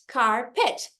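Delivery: "carpet" as car, pause, pet; syllable by syllable. Shown as a demonstration. English teacher counting two syllables, "carpet" split in two. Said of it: "duas sílabas".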